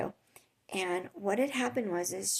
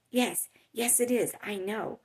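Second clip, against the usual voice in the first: imitating an irritated shopper; snappy, mildly heated mock agreement; angry; 2 semitones higher, 4 dB louder than usual. Lady answers the store worker, mildly angry. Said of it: "she just was so angry".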